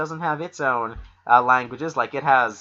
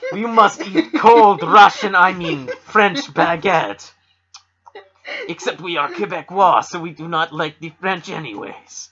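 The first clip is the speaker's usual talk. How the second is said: mock Slavic accent; 4 semitones higher, 5 dB louder than usual. Podcaster mocking Quebecois in a clumsy hammed-up Slavic accent. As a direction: ham up a Slavic accent while parodying Quebec. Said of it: "attempt at a Slavic accent".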